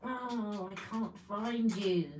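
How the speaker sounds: very soft talking to herself; searching murmur. Real, not acted. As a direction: murmur absently to the thing you are hunting for. Talking to a lost lip liner.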